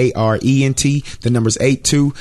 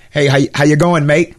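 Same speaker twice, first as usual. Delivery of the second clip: higher-pitched attempt at an Aussie greeting; Aussie accent; 4 semitones higher, 3 dB louder than usual. Guest pretends to phone the Aussie host, in an Aussie accent. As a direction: put on a playful Australian accent. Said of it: "That's my, that's my Aussie".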